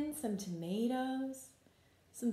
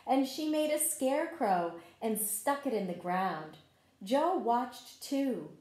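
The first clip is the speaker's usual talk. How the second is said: story narration. A narrator's reading. Teacher reading a garden story to children, gentle read-aloud. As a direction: tell the story like a picture book at circle time. Reads picture book to children.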